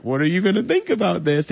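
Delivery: high, loud mock-anxious question; retold fear. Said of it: "this fear of".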